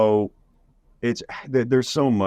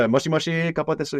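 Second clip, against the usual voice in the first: playful high Japanese phrase; 10 semitones higher, faster than usual. Pretend.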